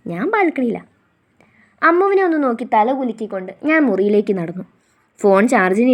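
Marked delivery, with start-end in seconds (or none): 0.1-0.8 hushed secret whisper. Acted. Sister whispers her plan to sneak a call, whispering. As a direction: breathe it so parents won't hear. Telling sister quietly where.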